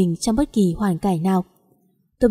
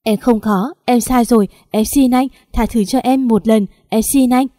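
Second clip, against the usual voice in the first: crying plea; 2 semitones higher than usual. Acted. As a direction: beg frantically for forgiveness, sobbing. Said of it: "cứ lắc đầu rồi khóc". (vợ khóc van xin chồng tha thứ)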